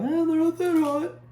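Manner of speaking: high, offhand "eh, no big deal"; dismissive shrug. Retold or imitated. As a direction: brush it off lightly, mock casual. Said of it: "pick these up and go".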